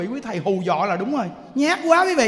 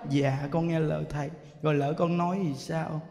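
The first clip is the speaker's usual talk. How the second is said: low, soft, timid reply; meek old woman; 8 semitones lower, 8 dB quieter than usual. Retold or imitated. Old woman humbly answering the monk, low and timid. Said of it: "Bà nói".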